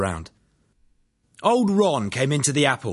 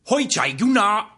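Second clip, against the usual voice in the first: high, slow Cantonese shout down the stairs; 10 semitones higher than usual. Acted. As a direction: call out in Cantonese from above. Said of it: "shouted a voice down the stairs".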